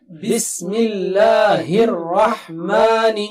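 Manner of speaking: بسم الله الرحمن with the ha in الرحمن clearly breathed; careful recitation, ha not swallowed. Shown as a demonstration. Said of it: "ha should be clear".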